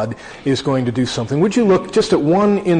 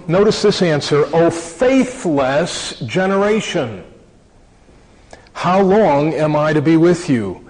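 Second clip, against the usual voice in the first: raised, earnest Bible reading voice; scripture reading. Acted. Preacher reading Mark nine to congregation, earnest and raised. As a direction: read the passage out to the congregation with weight.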